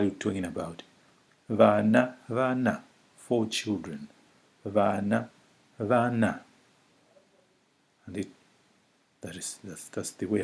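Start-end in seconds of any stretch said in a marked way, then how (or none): 1.5-2.8 first vana rising, second vana falling; tone change on vana. Shown as a demonstration. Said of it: "the tone changes depending on what". 4.6-6.4 first vana rising, second vana falling; tone change on vana. Shown as a demonstration. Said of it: "the tone changes depending on what".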